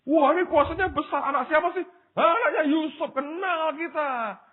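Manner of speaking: very high, mocking crowd voice; suspicious townsfolk. People of Nazareth doubt Jesus on his arrival, high suspicious scoffing. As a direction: act out sceptical neighbours, drawing out the end.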